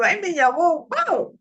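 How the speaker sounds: high burst of joyful amazement; acted delight, leaping up in pitch; overjoyed. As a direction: exclaim it high, thrilled to be called. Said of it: "el gozo, el ánimo".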